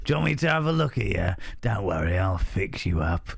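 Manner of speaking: lightly voiced creepy Cockney doctor; a hint of a Cockney quack offering a free checkup; dodgy Cockney accent. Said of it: "a dodgy Cockney accent".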